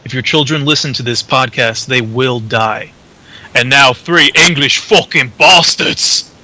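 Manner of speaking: mock-serious advisory read building to a loud intro; announcer. Guest voices the podcast's adult-content warning and intro, announcer style. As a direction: announce it like a radio warning, then roar the intro.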